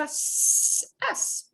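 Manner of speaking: "s" as a drawn-out hiss; soft C sound. Shown as a demonstration. Teacher explaining C E or C I, soft hissed S. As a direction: hiss the "s" like an English S. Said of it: "then it'll sound like a".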